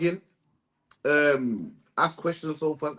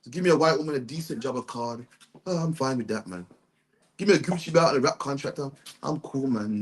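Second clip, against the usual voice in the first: mock complacent; 5 semitones lower than usual. Preacher voicing a man content to get by, mock complacent. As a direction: act like someone who settles for little. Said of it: "But black man wants to get by".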